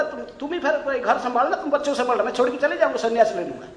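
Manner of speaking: husband's mock threat, half laughing. Husband threatening wife, half laughing. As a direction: threaten lightly, chuckling. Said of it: "तो वो डर जाती थी".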